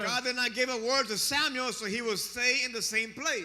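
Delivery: interpreter echoing a preacher's insistence; steady, emphatic pulpit delivery; preach. Real, not acted. Interpreter echoes the preacher's intensity.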